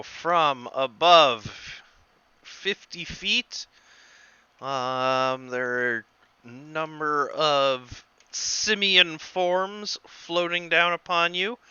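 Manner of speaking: deliberate, spaced-out scene setting; game master's narration. Acted. Game master opens combat for Thomas, deliberate narration. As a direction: lay out the threat phrase by phrase.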